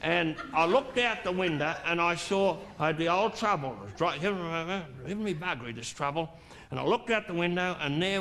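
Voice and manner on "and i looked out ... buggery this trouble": wife's weary voice. Retold or imitated. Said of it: "she said".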